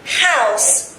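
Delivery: "house" carefully sounded out with its OW vowel; careful pronunciation demo. Shown as a demonstration. Teacher models the word for pupils to repeat, "house" carefully pronounced. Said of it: "Pay attention to the pronunciation".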